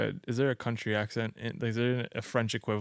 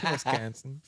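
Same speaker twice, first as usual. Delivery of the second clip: put-on Wisconsin accent; 2 semitones higher, slower than usual. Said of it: "working on your Wisconsin accent".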